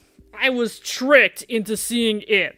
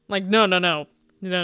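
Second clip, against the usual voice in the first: normal talking voice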